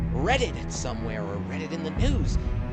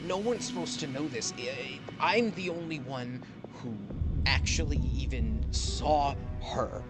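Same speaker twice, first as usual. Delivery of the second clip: desperate pleading; 3 semitones higher, faster than usual. Acted. NPC pleads for his life.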